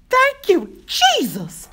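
loud, high cry of relief; fervent thanks. A narrator's reading. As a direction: shout praise up to the sky. Woman thanks heaven, children safe.

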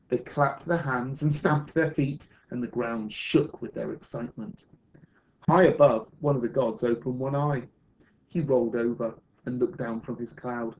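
measured, expressive picture-book reading; storyteller reading to children; story narration. Acted. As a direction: read a story aloud to a class, with lift on the key words.

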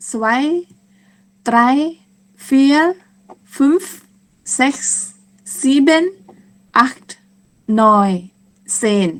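each number on its own, with pauses; slow counting. Shown as a demonstration. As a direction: count slowly and deliberately for learners. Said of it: "ถ้านับเร็วๆ ก็จะเป็น". (นับช้าๆ เว้นจังหวะทีละคำ)

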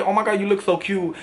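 forceful New York compliment, held back a little; aggressive compliment. Shown as a demonstration. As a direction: pay the compliment with a slight assertive push. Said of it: "I definitely have, like, an aggressive voice".

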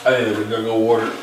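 talking while chewing candy; chewing sticky candy; mouth full. Real, not acted. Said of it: "Really stuck in my teeth".

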